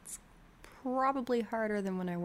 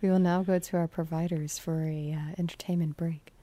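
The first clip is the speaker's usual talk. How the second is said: sexy late-night DJ, louder, trailing into a whisper; sultry radio voice; 4 dB louder than usual. Acted. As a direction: seductive station break announcement. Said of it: "different sexy voice on the radio".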